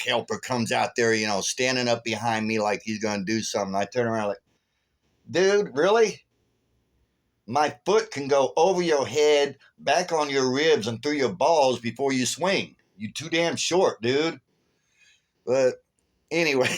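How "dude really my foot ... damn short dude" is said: mocking threat. Threatening the little helper.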